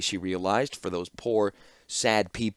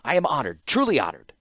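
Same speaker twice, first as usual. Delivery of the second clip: fawning; 4 semitones higher, 4 dB louder than usual. Acted. Clockmaker keeps fawning.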